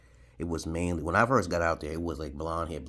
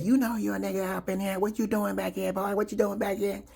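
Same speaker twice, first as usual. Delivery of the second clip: mock redneck gunman; 14 semitones higher than usual. Gunman taunts the black stranger, high mock redneck voice. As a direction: threaten the stranger in the woods.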